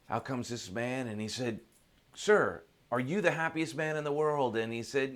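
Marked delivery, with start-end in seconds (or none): 2.1-4.5 raised, eager plea to a stranger; eager questioning. Acted. Seeker to the man at the cabin door, eager questioning. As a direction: call out the question, pitched up.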